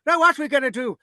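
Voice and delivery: high, loud hammed-up Irish voice; mock Irish. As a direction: play the plotting Irish raiders, overdone. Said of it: "They're thinking".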